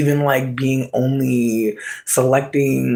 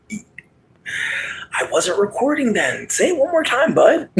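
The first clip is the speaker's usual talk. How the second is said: mock taunt; 9 semitones higher, slower than usual. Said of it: "And I'm like".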